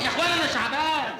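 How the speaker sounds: pleading through a nervous laugh, rising; laugh-broken protest that he is Shaaban; nervous laughing plea. Acted. Prisoner pleads while being led off.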